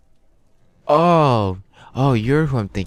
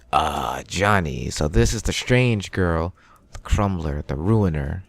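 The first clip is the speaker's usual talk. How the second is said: lightly voiced doctor; 2 semitones lower, slower than usual. Doctor greets the strange girl.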